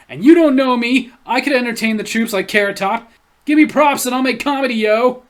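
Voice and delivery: loud, brash show-off; cocky. Retold or imitated. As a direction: puff your chest and boast. Reading a cocky comment.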